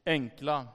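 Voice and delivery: "enkla" set apart after a short pause; single out "enkla" as its own phrase; stress on enkla. Shown as a demonstration. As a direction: lean on the word "enkla", said low. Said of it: "med betoning på".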